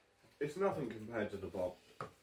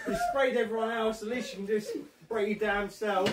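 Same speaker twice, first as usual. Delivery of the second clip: laughing; 10 semitones higher, 5 dB louder than usual. Real, not acted. Laughing while teasing friend.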